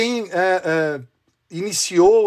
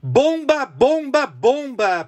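put-on rapid old-time reporter; 6 semitones higher, slower than usual. Mock breaking-news alarm.

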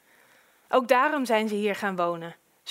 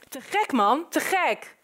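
enthusiastic neighbour; 4 semitones higher than usual. Acted. Neighbour enthuses over newcomers.

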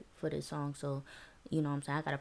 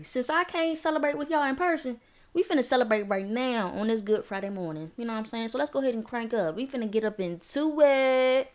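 party hype; 4 semitones higher than usual. Real, not acted. Hyping up the party.

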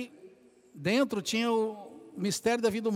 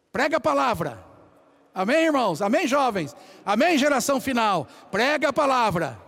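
louder and higher, rallying cries; full-force preaching; 3 semitones higher, 5 dB louder than usual. Acted. Preacher rallying the youth, loud and higher. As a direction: lift the crowd with every Amém.

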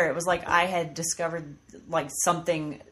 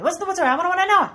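put-on higher and louder, a kid racing down the hall; excited kid yelling; 12 semitones higher, 8 dB louder, much faster than usual. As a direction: shout it like a running toddler. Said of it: "take off down the hallway".

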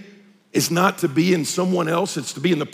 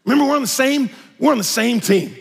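gently; 5 semitones higher than usual. Shown as a demonstration. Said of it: "very gently say".

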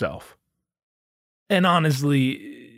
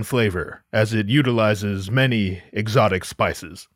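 mock Paul Mooney; 5 semitones lower than usual. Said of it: "mimicking Paul's bit".

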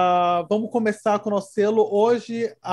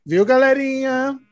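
higher, louder, slow singsong tease; playful teasing; 6 semitones higher, 4 dB louder, slower than usual. Pretend. Hinting to friends that her own birthday is coming, playful singsong. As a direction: stretch it out to tease your friends.

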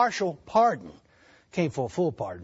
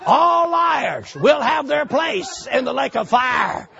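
devil's taunt; 4 semitones higher, 4 dB louder, much slower than usual. Retold or imitated. Repeats the devil's line.

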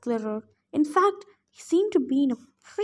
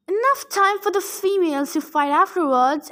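interrupting loudly; 5 semitones higher, 3 dB louder than usual. Acted. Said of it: "Antaeus interrupted".

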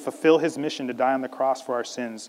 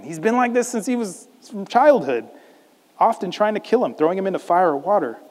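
loud, higher-pitched venting; exasperated father; 6 semitones higher, 5 dB louder than usual. Acted. Father tells Jesus of his boy's suffering, exasperated. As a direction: pile up the complaints in acted exasperation. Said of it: "this exasperated father saying".

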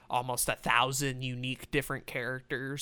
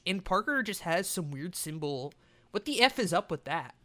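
hyped gamer bro; 4 semitones higher than usual. Pretend. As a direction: lean into the gamer bro countdown. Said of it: "let me do like a gamer voice".

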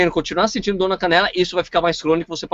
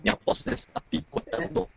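choppy breaking-up audio; 3 semitones higher, 10 dB quieter than usual. Real, not acted. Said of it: "Sua voz tá picotando".

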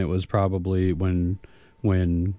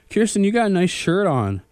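higher-pitched, lightly gushing imitation; mock friendly compliment; 10 semitones higher than usual. Acquaintance complimenting Kirsten over coffee, mock friendly. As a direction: imitate someone handing out a casual compliment.

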